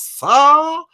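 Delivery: ordinary talk, nothing marked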